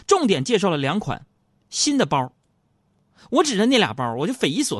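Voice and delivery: high, loud lively telling; animated storytelling. Acted. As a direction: keep it pumped and lively.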